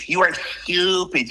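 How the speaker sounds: lightly imitated Dexter voice, slowed down; a slow, mildly put-on cartoon boy genius; Dexter impression. Quoting a late co-star's cartoon character, lightly imitated. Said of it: "she invented this Dexter character".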